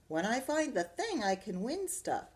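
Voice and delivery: put-on high eager boy voice; eager child. Arthur pleading with Dad to keep playing, eager. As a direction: argue your case eagerly.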